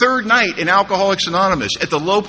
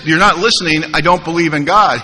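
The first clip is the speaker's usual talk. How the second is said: mildly insistent interruption; more forceful; 3 dB louder than usual. Retold or imitated. Newcomer interrupting his sponsor, a little forceful. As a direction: push back firmly, retelling an objection. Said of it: "a little more forcefully".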